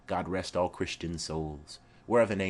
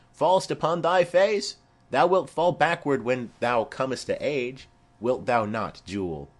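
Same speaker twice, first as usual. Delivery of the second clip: put-on higher, louder, jolly teasing of a toddler; hearty husband imitation; 3 semitones higher, 4 dB louder than usual. Nurse voicing her husband teasing the baby, higher and louder. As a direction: boom it out like a merry husband.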